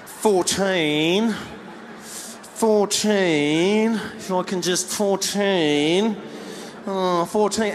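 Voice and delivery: mock frustration, drawn out; hint with growing impatience, stretching the number; slow, pointed passive-aggressive complaint; mildly agitated Australian. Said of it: "he's getting more and more agitated".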